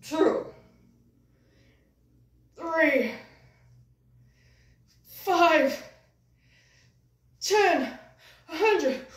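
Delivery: loud, high, straining count with pauses between; mock exertion. Puppet counting his pull-ups, loud hammed-up straining. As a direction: heave out each number as if lifting.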